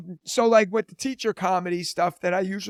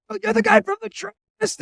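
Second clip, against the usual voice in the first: high put-on excited kid voice; imitating busboy; 14 semitones higher than usual. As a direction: play the teen busboy, pitched way up. Busboy runs out, retold.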